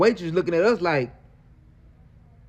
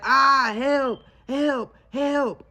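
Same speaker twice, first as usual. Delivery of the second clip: mock scream for help; 6 semitones higher, much slower than usual. Woman faking a scream as he runs out. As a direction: ham up a fake call for help. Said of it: "she started screaming".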